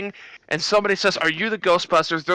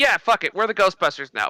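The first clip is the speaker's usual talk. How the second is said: irritated, resigned, annoyed, grudging tone. Retelling a movie scene where a character cuts someone off: imitating an annoyed line. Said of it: "But she says it, like, annoyed".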